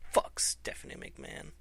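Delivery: hushed whisper under the breath; whispered aside at Stephanie; whispered curse. Real, not acted. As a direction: spit it out in a whisper.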